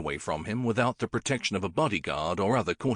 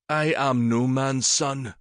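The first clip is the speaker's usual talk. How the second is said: put-on hollow, slow boy's voice; lightly voiced bitter boy; slow reply from the unwanted boy; the boy Syn; 4 semitones higher, 3 dB louder, slower than usual.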